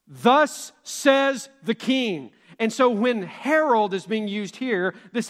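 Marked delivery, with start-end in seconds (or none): 0.1-2.3 royal proclamation. Retold or imitated. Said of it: "it was a proclamation that was made".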